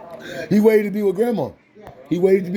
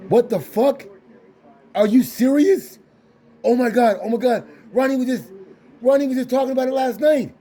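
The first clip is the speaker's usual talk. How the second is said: retold disbelief; 4 semitones higher than usual. Retelling relative's shocked reaction to news.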